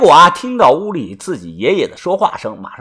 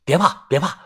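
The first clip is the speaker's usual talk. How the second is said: soft comforting; 4 dB quieter than usual. Acted. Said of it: "轻声地安慰地说".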